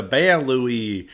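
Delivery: Ban Louis, an Americanized banlieues ending in "Louie"; American pronunciation. Shown as a demonstration. Podcaster refusing to attempt French, Ban Louis in American pronunciation. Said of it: "let's use American pronunciations".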